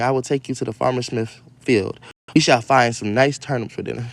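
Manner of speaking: lightly performed storybook reading; story reading. Acted. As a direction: read the fairy tale out to the kids. Reads story aloud to kids.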